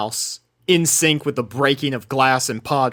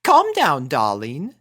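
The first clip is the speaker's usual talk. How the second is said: soothing Rarity; 2 semitones higher than usual. Acted. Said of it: "soothed Rarity".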